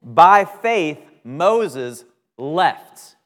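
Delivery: "By faith" punched high and loud; emphatic scripture reading. Shown as a demonstration. Preacher stressing the key words of the verse for the class, loud stress on "By faith". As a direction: drive hard into "By faith", then ease off. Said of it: "See how I'm emphasizing a certain word?".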